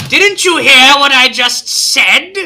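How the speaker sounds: intimidating voice. Acted. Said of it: "And I say".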